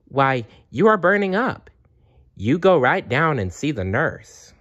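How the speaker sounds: lightly voiced worried teacher; alarmed teacher. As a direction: send her to the nurse right away. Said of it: "Missus Burnett said".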